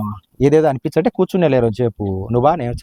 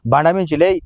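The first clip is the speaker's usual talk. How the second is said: mocking her nagging; 3 semitones higher than usual. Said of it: "అని పెట్టినావు".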